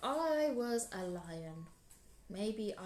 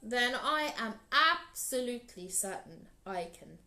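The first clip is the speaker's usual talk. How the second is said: big proud lion; 3 semitones higher, 4 dB louder than usual. Acted. Lion boasts to Anansi about his lunch, loud and grand. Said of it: "said Lion".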